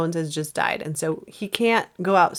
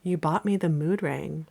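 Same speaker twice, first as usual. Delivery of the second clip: Zooey Deschanel line reading; 3 semitones lower, 4 dB quieter than usual. Acted. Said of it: "And I'm gonna be Alma".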